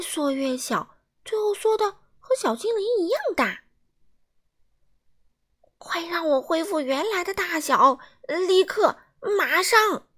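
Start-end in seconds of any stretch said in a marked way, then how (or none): 5.8-10.1 loud, higher angry shout; a rude man shouting orders; angry yelling. A narrator's reading. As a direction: demand it at once, furious. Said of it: "傲慢先生生气地哇哇大叫".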